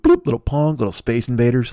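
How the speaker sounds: ordinary delivery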